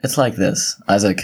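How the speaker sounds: low, close-mic podcast voice, lightly put on; a hint of podcast host, leaning into the mic. Co-host making something up for Isaac, mock podcast voice. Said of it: "He's gonna use his podcast voice".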